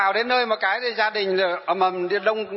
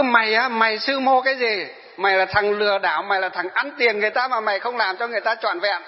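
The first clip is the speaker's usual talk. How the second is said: put-on retelling a young man's abuse, raised and pointed; mock angry scolding; 3 semitones higher than usual. A monk imitating the man who cursed him to his face, in a mild mock rant. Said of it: "nó chỉ mặt mình nó chửi thôi".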